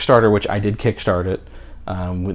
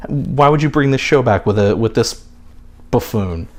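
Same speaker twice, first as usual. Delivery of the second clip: indignant complaint, higher and louder, easing down at the end; mock outraged fans; 6 semitones higher, 5 dB louder than usual. Fan voicing the haters of a new host, mock indignation. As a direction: imitate fans griping in disbelief.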